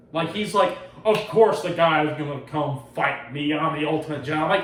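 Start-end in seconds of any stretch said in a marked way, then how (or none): 1.1-4.4 mock self-important hero, a bit louder; imitating a pompous boaster; pretentious. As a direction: play up the puffed-up Jedi. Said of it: "he's a pretentious asshole".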